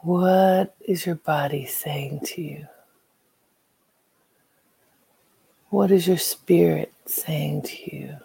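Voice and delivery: gentle unvoiced meditation whisper. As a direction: whisper the questions inward.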